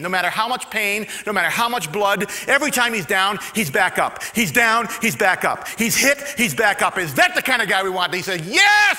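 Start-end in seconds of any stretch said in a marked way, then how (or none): 0.0-8.1 loud, high, building call; rousing coach. Retold or imitated. Coach builds toward climax. 8.4-9.0 very loud, high triumphant shout; rookies yell yes. Retold or imitated.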